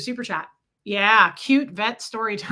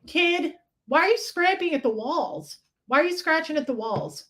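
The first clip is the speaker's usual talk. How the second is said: high pet-talk voice; 5 semitones higher than usual. Acted. Talking to the scratching pet.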